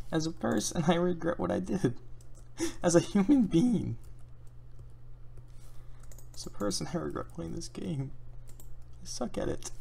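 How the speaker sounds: mock solemn regret.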